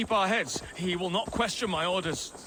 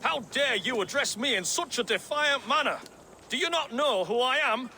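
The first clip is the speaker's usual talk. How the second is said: indignant lord; 5 semitones higher than usual. Acted. Impostor feigns a thane's outrage.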